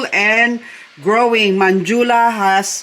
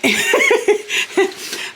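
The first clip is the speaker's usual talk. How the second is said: high giggle. Real, not acted. Laughing at own tummy.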